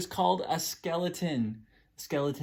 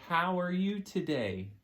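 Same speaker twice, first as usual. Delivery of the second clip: slow signing demo; 3 semitones higher, slower than usual. Shown as a demonstration. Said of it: "Can you say ... with your hands".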